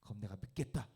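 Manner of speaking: high, loud jeering taunt; mocking robber. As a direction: sneer up at the man on the cross. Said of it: "한 명은 이렇게 이야기해요". (예수를 조롱하는 강도, 높고 큰 비웃음)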